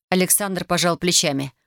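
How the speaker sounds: ordinary delivery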